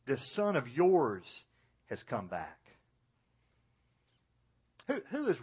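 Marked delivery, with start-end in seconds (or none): 0.1-2.6 contempt. Retold or imitated. Older brother coldly disowning his sibling before the father. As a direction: spit out "This son of yours" with slow scorn. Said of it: "In contempt".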